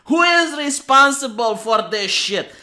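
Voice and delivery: mildly hammed-up outrage; exasperated mock-adventurer complaint; indignant rant. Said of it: "I would be like".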